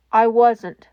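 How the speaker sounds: loud, urgent denial. Acted. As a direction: cut in forcefully. All Might urgently denies.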